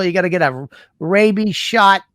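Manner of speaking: angry mother. Retold or imitated. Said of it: "I've never seen her that mad".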